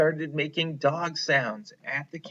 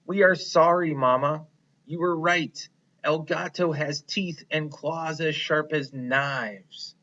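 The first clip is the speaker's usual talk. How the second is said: sorry little mice; 4 semitones higher than usual. Acted. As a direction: apologize to mama, meaning it. Mice apologize to mother.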